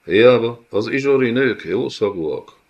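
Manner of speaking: leering villain. Acted. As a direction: slap his shoulder with a crude boast. Villain jokes to companion. (durva, harsány gonosz úr)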